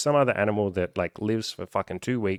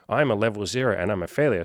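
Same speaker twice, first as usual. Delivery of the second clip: flat, falling self-pity on "failure"; mock the defeatist line; defeated. Shown as a demonstration. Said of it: "Instead of saying".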